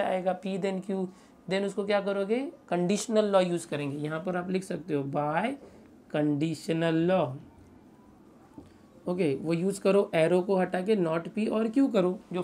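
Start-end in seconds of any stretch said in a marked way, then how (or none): 5.1-7.3 slow, spaced-out phrase; name it slowly for note-takers; dictating. Real, not acted. Teacher tells students which law to write, dictating slowly.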